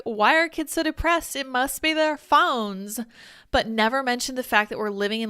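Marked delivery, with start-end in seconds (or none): 0.0-3.0 high, slow mocking drawl; mock the tweeter, dragging it out; lizard person impression. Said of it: "That's my impression of an actual lizard person".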